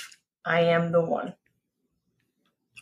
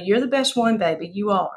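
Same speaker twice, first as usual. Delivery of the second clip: Southern accent. Shown as a demonstration. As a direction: say it in your best Southern accent. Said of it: "do your best Southern accent".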